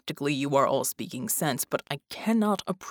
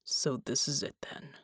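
muttered; 6 dB quieter than usual. Acted. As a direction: mutter it to yourself. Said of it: "Bulwark muttered".

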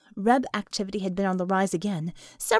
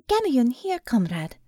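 gruff Russian soldier voice; Russian accent. Acted. Gamayun answers the call.

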